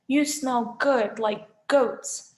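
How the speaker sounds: slow monster savouring a smell; lightly voiced, slow Cyclops; hungry Cyclops. A narrator's reading. Cyclops sniffs and admires Grover.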